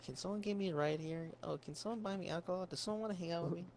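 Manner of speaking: a hint of needy-girl voice; mimicking a needy girl. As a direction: lightly mimic a girl begging for favors. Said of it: "She's like".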